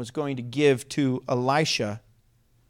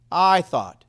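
"I" leaned on and louder, falling away on "thought"; emphasis on "I"; 5 dB louder than usual. Shown as a demonstration. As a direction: stress the "I" moderately. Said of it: "Say it with emphasis".

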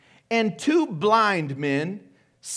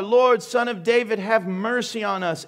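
acted cry to be heard; 3 semitones higher than usual. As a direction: call out insistently for mercy. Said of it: "They cried out all the more".

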